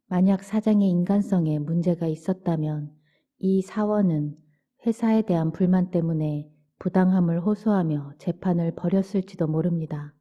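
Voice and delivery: ordinary delivery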